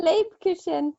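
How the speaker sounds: Lebkuchen with the CH softened to SH; learner's Lebkuchen with a soft SH; too-soft CH. Shown as a demonstration. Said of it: "Your C H sound is too soft".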